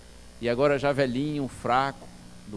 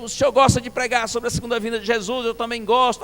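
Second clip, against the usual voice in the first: raised, higher retold voice; loud conversation; 7 semitones higher, 5 dB louder than usual. Visitor chatting about preaching with deaf pastor, high volume. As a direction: speak up for a hard-of-hearing man. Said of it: "alto volume".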